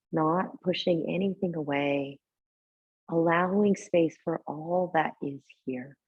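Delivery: calm guiding voice with long, unhurried pauses; guided meditation. Real, not acted. Teacher settling a yoga class into tonight's practice, guided meditation. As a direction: ease them gently into breath and body awareness. Leads seated breathing meditation.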